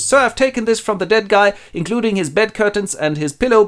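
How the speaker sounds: high-pitched, put-on hag voice; old hag. Old hag sells stolen goods, high hag voice. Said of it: "an old hag comes in and goes".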